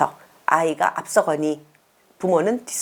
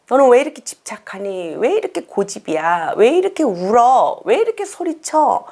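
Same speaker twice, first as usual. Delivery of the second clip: nagging mom, climbing higher with each question; mock scolding parent; 4 semitones higher than usual. Shown as a demonstration. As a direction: scold like an exasperated mother listing faults. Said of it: "문제 행동을 자꾸 나열하다 보면".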